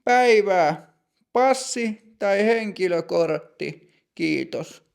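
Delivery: brisk but proper; lightly voiced stern clerk.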